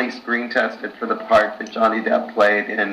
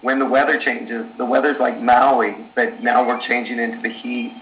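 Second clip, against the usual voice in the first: hoarse, worn-out voice; lost voice. Real, not acted. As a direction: talk through a voice that's mostly gone. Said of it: "I've kinda lost my voice".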